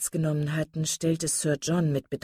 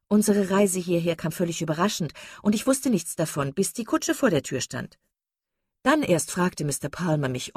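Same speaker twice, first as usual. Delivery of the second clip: effusive chatterbox lady; 3 dB louder than usual. Acted. Mrs Palmer chatting to her guests about the visit, mildly gushing. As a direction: chatter on with a touch of breezy delight.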